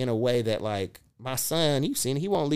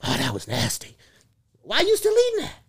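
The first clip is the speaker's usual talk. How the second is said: loud, higher, hammed-up telling-off; mock scolding; 10 semitones higher, 8 dB louder than usual. Dad teasing his son for licking his fingers, loud mock scolding. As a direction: playfully chew him out.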